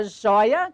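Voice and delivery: "joia" with the stressed diphthong "ói" kept open; open vowel in joia. Shown as a demonstration. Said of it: "Continua com sonoridade aberta".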